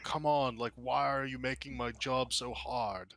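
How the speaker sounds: non-confrontational, drawn-out complaint; exasperated plea. Acted. Guard to wandering witnesses, exasperated plea. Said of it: "not trying to, like, confront you".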